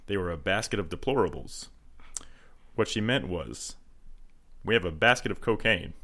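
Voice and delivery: lightly voiced president with long pauses; a hint of measured statesmanlike explaining; Obama. Shown as a demonstration. Explaining Hillary's remark as a joke, lightly voiced Obama. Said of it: "actually a pretty good impression".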